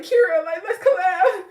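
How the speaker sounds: high, loud, laughing invitation; eager mock plea. Fan imagining asking a creator to collab, playfully eager. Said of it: "I wanna be like".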